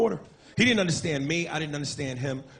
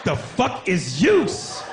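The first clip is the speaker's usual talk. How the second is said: baffled yell; much slower than usual. Retold or imitated. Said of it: "comedian baffled".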